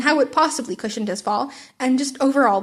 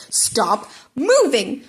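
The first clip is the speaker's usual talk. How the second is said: frustrated growl; much slower than usual. Acted. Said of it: "Bakugo growled in frustration".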